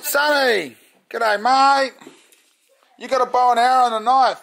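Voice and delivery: high, excited dog's voice; high, giddy pet voice; voicing the dog. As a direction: speak as the happy dog greeting everyone. Voicing dog greeting the kids.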